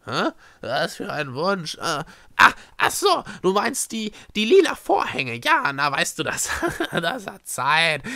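high, loud flustered chatter with a laugh; puzzled, then breezily dismissive; scatterbrained Schreckse. Acted. Schreckse misunderstands Echo's wish, airily flustered.

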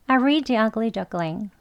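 I read The Ugly Duckling at a natural quick pace; fast. Shown as a demonstration. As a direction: say it quickly, run the words together. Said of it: "빨리도 해볼게요". (빠르게 이어서)

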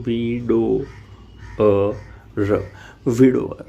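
વિડોઅર said slowly with no v sound; model pronunciation. Shown as a demonstration. Teacher drills students on વિડોઅર, careful and clear. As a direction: repeat વિડોઅર cleanly, "vi-do-er". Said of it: "આ રીતે ઉચ્ચાર કરીશું".

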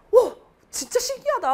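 put-on amazed kid. Twin marveling that both classes did it, excited. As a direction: gasp it out in childish wonder. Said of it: "말하면서 둘이 막 얘기를".

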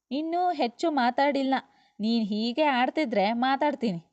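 understated acted squabble; quarrelling. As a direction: argue back with a touch of temper. Acted quarrel between husband and wife.

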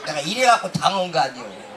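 ordinary talk

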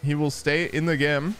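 lightly animated esports commentary; game caster keeping up with the action; live play-by-play. Real, not acted. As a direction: call the team fight as it unfolds.

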